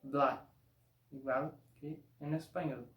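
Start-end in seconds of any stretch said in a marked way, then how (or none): 0.0-0.5 "bla" exactly as in Spanish; plain Spanish "bla"; same as Spanish. Shown as a demonstration. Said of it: "va a sonar como".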